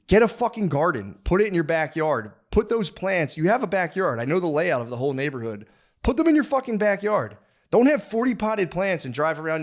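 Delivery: jab each order at the neighbor; heated rant about potted plants. Real, not acted.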